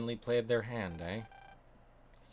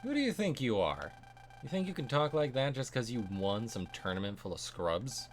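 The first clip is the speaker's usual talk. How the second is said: angry challenge; 2 semitones higher than usual. Acted. Rival snaps at arrogant boast.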